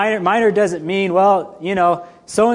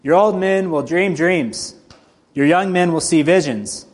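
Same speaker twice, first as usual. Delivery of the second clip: steady, measured Bible reading; scripture reading. Acted. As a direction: read the passage with weight. Reads scripture passage aloud.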